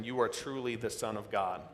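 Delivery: understated, low-pitched awe; hushed adoration. A narrator's reading. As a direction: read it as quiet worship. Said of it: "They said in adoration".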